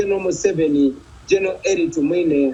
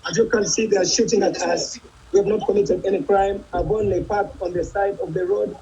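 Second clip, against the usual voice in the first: alarmed; 5 semitones higher than usual. Real, not acted. Under fire, arrested mid-interview.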